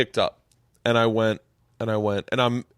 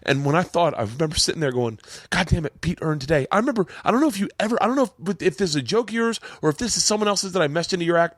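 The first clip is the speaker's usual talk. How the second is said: emotional, pitch riding high; raised, overwrought voice holding back tears; near tears; 6 semitones higher than usual. Real, not acted. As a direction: keep talking while choked up. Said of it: "I might actually cry".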